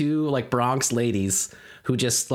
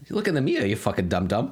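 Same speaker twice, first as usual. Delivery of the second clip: mock Bronx lady; 3 semitones lower than usual. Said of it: "they say, like".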